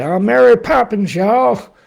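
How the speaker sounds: very high, loud sing-song mock Mary Poppins. Weather vlogger mocking beachgoers, in a shrill Mary Poppins voice. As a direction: squeal it like a prim nanny gone country.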